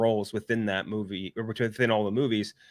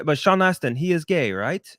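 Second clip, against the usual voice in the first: mild mock German interviewer; 5 semitones higher, 4 dB louder than usual. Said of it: "He's like".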